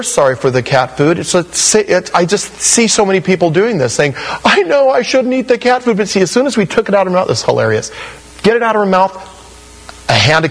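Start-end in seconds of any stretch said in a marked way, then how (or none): 4.4-6.0 higher, sheepish mock apology; mock contrite confession. Preacher mimics a sinner's sheepish apology. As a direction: play the guilty sinner caught out.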